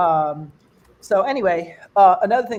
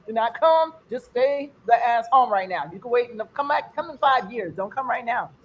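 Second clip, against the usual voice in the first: raised, emphatic comic warning; urgent mock warning; 3 semitones higher, 3 dB louder than usual. Visitor warning kid off America, urgent mock warning. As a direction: warn them off, loud at first then easing.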